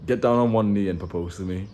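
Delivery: slightly deepened, mock-manly command; deep voice. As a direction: act out a put-on deep voice. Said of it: "like, deep with this guy".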